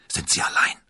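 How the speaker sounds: hushed, furtive question; barely voiced, checking nobody hears; whisper. A narrator's reading. Constanze fragt D'Artagnan heimlich, geflüstert.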